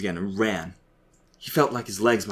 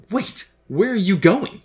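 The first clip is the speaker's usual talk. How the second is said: high, raised-voice demand; alarmed demand, pitched way up; urgent demand; 12 semitones higher, 7 dB louder, slower than usual. A narrator's reading. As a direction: call out urgently to stop someone leaving. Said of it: "he demanded".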